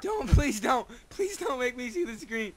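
soft scared begging whisper; whispered pleading. Real, not acted. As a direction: beg in a hushed voice. Pleading not to watch.

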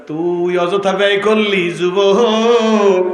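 slow, rising preacher's call; preaching appeal. Acted. Preacher pleading with a young man, slow rising call. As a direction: draw the last word out long and loud.

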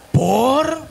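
halting, mock-panicked questions, starting high; acted flustered disbelief; nervous. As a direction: stammer out alarmed inner questions. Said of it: "todo ese nervio".

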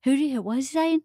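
imitating a Southern dad. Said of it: "my daddy goes".

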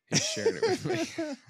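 squeaky sarcastic high pitch; high mock voice. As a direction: jump way up, mock-sweet.

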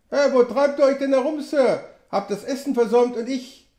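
put-on high, loud old trapper calling out; Sam Hawkins voice. A narrator's reading. Sam calls out to the returning narrator, high and loud.

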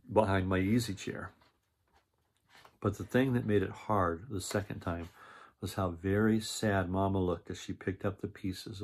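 lively read-aloud narration with character lines; storybook reading. A narrator's reading. Reading a picture book aloud to children, lively storytelling.

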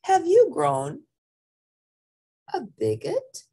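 high-pitched storybook character voice; character's question. A narrator's reading. Smallest one questioning the gatito, high character voice. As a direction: ask it high, in a small creature's voice.

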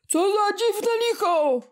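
high, wondering fisherman voice. A narrator's reading. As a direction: marvel at the strange little beast.

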